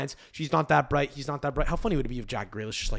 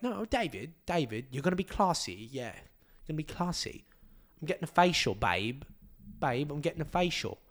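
Victoria Beckham; 4 dB quieter than usual. Acted. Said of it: "There's no Victoria like".

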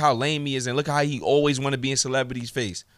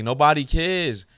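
dismissive; slower than usual. Retold or imitated. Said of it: "my ass was like".

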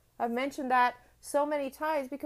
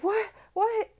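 put-on child quote; 10 semitones higher, 3 dB louder than usual. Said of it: "And I'd be like".

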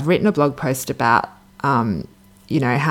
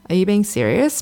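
calm, even question, kept level; 6 semitones higher than usual. Retold or imitated. Her calm new self answering the ex, steady even question. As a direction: ask it steadily without rising to the bait. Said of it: "but in a calm way".

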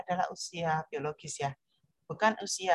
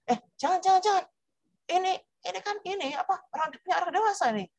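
high-pitched parent hurriedly saying no; mock-panicked parental warning; alarmed forbidding parent; 12 semitones higher than usual. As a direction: shoo a child off in a raised, high voice. Acts out parent hastily forbidding child.

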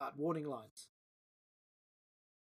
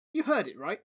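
louder, higher urgent demand; 3 semitones higher, 6 dB louder than usual. Acted. Dom demanding the bus crowd back him up, louder. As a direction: press the crowd for an answer. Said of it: "he demanded".

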